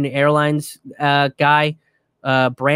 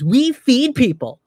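higher, mock-flustered protest, repeating itself; imitating a politician caught out and panicking; mocking Pelosi freaking out; 9 semitones higher, 3 dB louder than usual. Mocking the politician answering the anchor, high and flustered. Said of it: "she starts freaking out and she goes".

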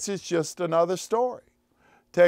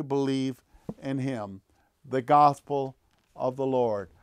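measured, solemn gospel reading at the lectern; scripture reading. Acted. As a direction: liturgical reading voice. Reads the gospel aloud.

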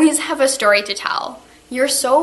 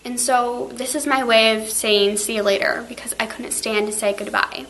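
tearful goodbye. Real, not acted. Teacher's tearful farewell to students.

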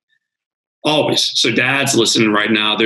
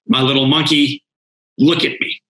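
tender father's voice; 4 semitones higher than usual. Retold or imitated. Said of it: "He said".

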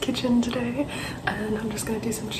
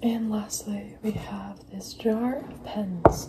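whispering; much slower than usual. Acted. Whispered ASMR presentation.

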